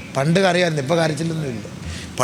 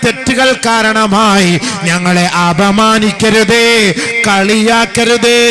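high, loud, slow chanting preacher's voice; sermon delivered at full force, stretched slow; full-force preaching; 8 semitones higher, 7 dB louder, much slower than usual. Acted. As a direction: preach it out, drawn long and loud to the hall.

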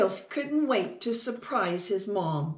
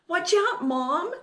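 high, loud warning call; urgent warning; 8 semitones higher, 4 dB louder than usual. Acted. Little mouse warning Mom before the crash, urgent call.

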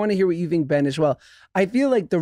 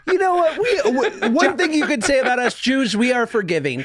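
put-on Yiddish accent; 8 semitones higher than usual. Joking as a Jew.

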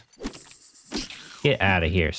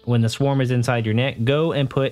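lightly voiced beekeeper; 3 semitones higher than usual. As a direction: talk the hero through it like a kindly old beekeeper. Beekeeper NPC explains the task.

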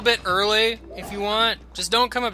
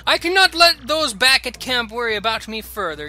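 pompous Flavio voice; 3 semitones higher, 3 dB louder than usual. Acted. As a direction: play the vain nobleman. Flavio taking his leave.

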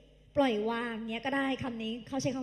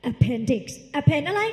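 very slow, much louder appendix; loud slow drill; 8 dB louder, much slower than usual. Shown as a demonstration. Teacher leading class pronunciation, loud and slow. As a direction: stretch and belt out appendix. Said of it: "ออกเสียงพร้อมพี่".

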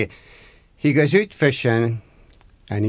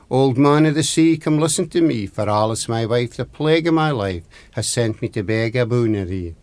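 summoning rhyme; 3 dB louder than usual. Acted. Husband calls on the old man of the sea, summoning rhyme. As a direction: recite it like an incantation, falling away at the end.

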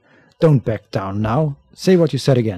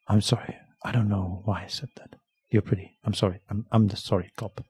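softer, sheepish and apologetic; sheepish apology; 2 semitones lower, 8 dB quieter than usual. Acted. Detective apologizes to the woman, softly and sheepishly. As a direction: mumble it like an embarrassed cop. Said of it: "let's go with the sorry option".

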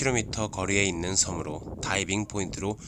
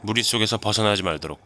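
squad orders. Pretend. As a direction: rattle off orders to Alpha. Commander orders alpha team.

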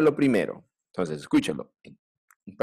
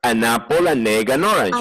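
normal speed; 3 dB louder than usual. Shown as a demonstration. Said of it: "velocidad normal".

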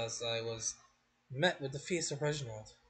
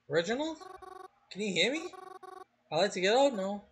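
calling out; 8 semitones higher, 4 dB louder, faster than usual. Acted. Trapped in coffin, calling out.

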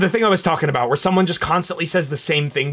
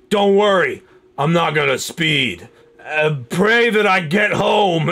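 put-on drunk man; slower than usual. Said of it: "in a deli with a drunk man".

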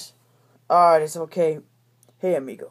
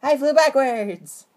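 slow odd voice; 5 semitones higher, 5 dB louder, slower than usual. Acted. Character recalls being blasted.

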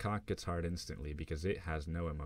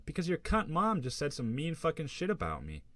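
much higher, louder furious shout; furious outburst; 11 semitones higher, 5 dB louder than usual. Acted. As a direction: explode at her. Losing it with girlfriend.

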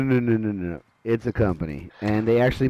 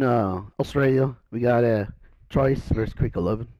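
hammy, badly faked Australian; mock Australian announcer; terrible Australian accent. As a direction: put on a bad Australian accent. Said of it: "That's my terrible Australian accent".

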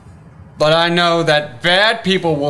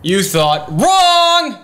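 slow, higher-pitched angry correction; indignant; 4 semitones higher, slower than usual. Acted. Disowning Charles as a friend, indignant. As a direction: draw out the rebuttal, pitched up.

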